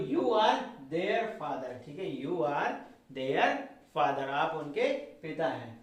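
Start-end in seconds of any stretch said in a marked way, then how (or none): 0.1-1.7 slow dictation. Shown as a demonstration. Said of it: "model sentence dictated slowly".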